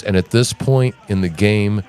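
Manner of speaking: a hint of a smug pundit; mocking the guest. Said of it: "he goes".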